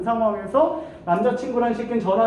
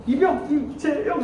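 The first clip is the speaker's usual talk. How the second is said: slow, higher mock private call-out; lightly voiced rookie soldier; private reporting in; 6 semitones higher, slower than usual. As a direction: sound off as a rookie, slowly. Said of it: "이래요".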